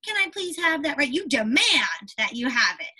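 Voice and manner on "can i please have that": politely asking. Shown as a demonstration. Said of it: "You don't just say".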